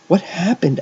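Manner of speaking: high, sharp demand. A narrator's reading. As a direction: demand an answer. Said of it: "Agnes demanded".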